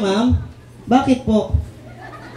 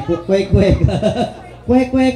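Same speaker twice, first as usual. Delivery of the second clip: laughing quack; slower than usual. Retold or imitated. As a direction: quack through giggles. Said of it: "Kasi islang, eh".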